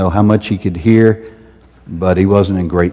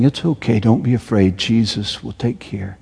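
gentle reassurance; 5 dB quieter than usual. Retold or imitated. Parent comforting a child.

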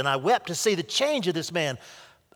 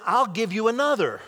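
gentle; 6 semitones higher, 3 dB louder than usual. A narrator's reading. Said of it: "He said it gently".

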